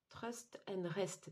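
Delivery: slow English with a French accent. Real, not acted. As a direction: say the English slowly, as a French speaker would. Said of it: "mon accent anglais". (anglais avec accent français, lentement)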